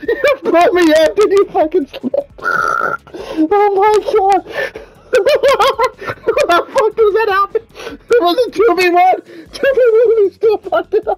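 crying with laughter, can barely talk; tearful laughter. Real, not acted. Laughing at Raj who failed a two versus one.

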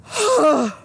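loud, high exhale falling away; big spent sigh after the fight; heavy sigh. Real, not acted. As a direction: let the breath go hard. Catching breath after huge catch.

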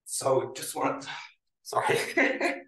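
breaking off on the edge of tears; real, halting struggle not to cry; choking up. Real, not acted. Presenter honouring grandmother who survived the Holocaust, choking up. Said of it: "supposed to cry at the end".

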